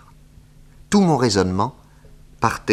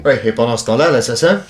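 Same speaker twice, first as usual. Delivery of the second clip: urgent protest; 6 semitones higher, 7 dB louder, faster than usual. Acted. Pressing inspector about the killer.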